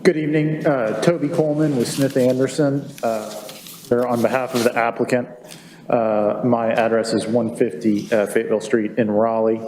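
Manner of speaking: muffled speech through a mask; talking through a cloth mask; through a face mask. Real, not acted. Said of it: "while I'm talking through my mask".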